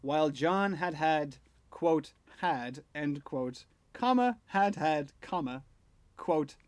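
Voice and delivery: dictating. Shown as a demonstration. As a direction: speak each comma and quote aloud. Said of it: "saying out the punctuation marks aloud".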